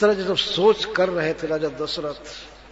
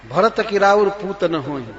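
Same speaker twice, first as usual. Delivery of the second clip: louder recitation; 2 semitones higher than usual. Acted. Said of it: "तब इस तरह से बोलते".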